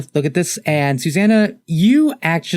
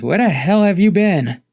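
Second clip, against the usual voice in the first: higher-pitched, indignant outburst; indignant demand; 6 semitones higher, 3 dB louder than usual. Acted. Dionysus confronts Hermes, indignantly exclaiming. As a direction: demand an explanation from someone long missing.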